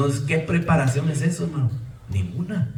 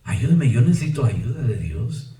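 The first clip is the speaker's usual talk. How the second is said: humble prayer. Retold or imitated. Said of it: "Que Dios diga".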